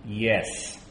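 "Yes" entre dientes apretados, más bajo; forced yes through clenched teeth; gritted teeth. Real, not acted. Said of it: "I said through gritted teeth".

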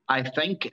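emphasis on "think", set off by itself; stress on think. Real, not acted. Guest hedging to interviewer about his son, "think" emphasized. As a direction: lean on the word "think". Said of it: "I emphasize the word T H I N K".

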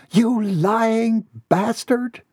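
high, slow outraged cry; furious accusation. Acted. Betrayed woman accusing Gerard in bar, high slow outrage. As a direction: spit it out at the man who lied.

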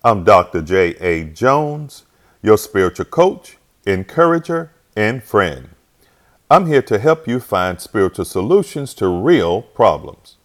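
confident podcast host welcoming listeners; announcer intro. Acted. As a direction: open the show like a radio host.

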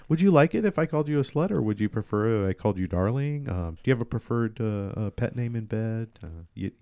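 mock-considerate bedroom questionnaire, quick then trailing into hesitant asides; understanding. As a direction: ask over-politely, with awkward ums. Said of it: "I just get real, real understanding".

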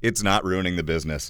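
soft, flat taking it back; deadpan retraction. Real, not acted. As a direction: drop it quietly, deadpan.

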